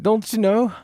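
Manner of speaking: high, sing-song Minnesota "Don't you know?"; Minnesota accent. Shown as a demonstration. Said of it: "Do it in the Minnesota accent".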